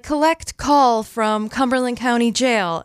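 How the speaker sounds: phone menu voice. Retold or imitated. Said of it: "So it'll be like".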